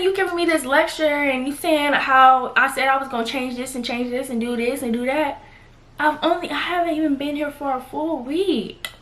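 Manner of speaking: high-pitched, indignant protest; mildly heated retelling of a comeback; retold matching aggression. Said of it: "So I matched her energy".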